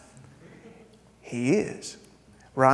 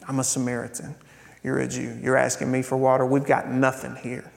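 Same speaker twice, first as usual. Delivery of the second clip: softer, lower, resigned listing; quiet flat statement; 4 semitones lower, 5 dB quieter, faster than usual. Retold or imitated. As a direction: say the divide plainly and hushed. Woman stating the separation.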